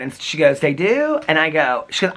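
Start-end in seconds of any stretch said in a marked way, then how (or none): 0.6-1.2 high, rising astonished question; retold surprise. Friend learns they live in a castle, surprised. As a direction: imitate a friend's surprise, pitch leaping up.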